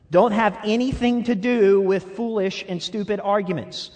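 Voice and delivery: laughing at himself as he rereads. Shown as a demonstration. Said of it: "I'm gonna read that again".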